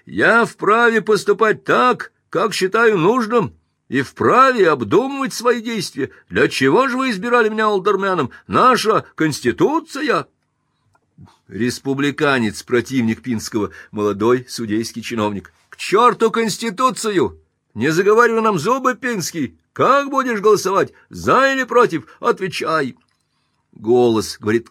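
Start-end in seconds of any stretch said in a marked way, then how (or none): 0.0-10.3 flustered protest. Acted. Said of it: "Он настолько растерян". 15.7-23.0 high, loud scornful yell; young clerk heckling the alderman; angry shout. Acted.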